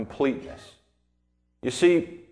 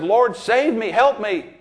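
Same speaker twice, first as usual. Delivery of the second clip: drowning man calling; 7 semitones higher, 4 dB louder, slower than usual. Retold or imitated. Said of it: "he said".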